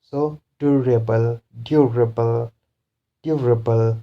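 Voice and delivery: durable with DUR stressed. Shown as a demonstration. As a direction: lean on the first syllable, DUR, in durable. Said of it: "the syllable before this is dur".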